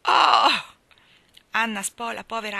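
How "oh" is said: loud high cry of dismay; as if splashed with ice water; shocked gasp. Acted. Anna shocked by the change. (grido di sgomento)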